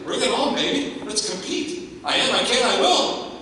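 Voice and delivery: high, fired-up self-challenge; talking back to cancer, fired up and defiant; defiant pep talk. Retold or imitated. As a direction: psych yourself up to fight. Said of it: "I was ready".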